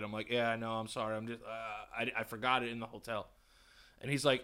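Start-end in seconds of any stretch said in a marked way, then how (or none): 0.3-3.3 softer, meek apology; timid sorry mumble to the clerk; sheepish polite. Retold or imitated. Shopper apologizing to the clerk, soft and meek. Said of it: "I'm really, really polite".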